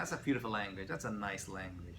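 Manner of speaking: low, softening appreciation; soft, settled praise after the uproar; soothed admiration. Shown as a demonstration. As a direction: ease down into gentle approval. Soothing French set against alarming German.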